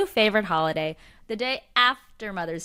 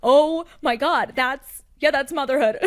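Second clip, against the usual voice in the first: mock awe; 5 semitones higher, 3 dB louder than usual. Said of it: "'Cause I was like".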